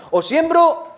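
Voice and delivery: high, questioning "O siembro"; mock dilemma. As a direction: voice the farmer's doubt up high. (pregunta aguda del agricultor que duda)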